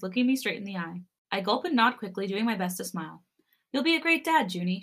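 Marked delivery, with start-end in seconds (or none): 3.7-4.8 sweetly encouraging, lifted higher then settling. A narrator's reading. Wife reassuring a nervous dad-to-be, sweetly. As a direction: say it with tender sweetness. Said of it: "she says sweetly".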